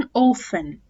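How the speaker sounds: "often" said "offen", American style; American "often", t dropped. Shown as a demonstration. Teacher showing the American "often". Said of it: "أما الأمريكان".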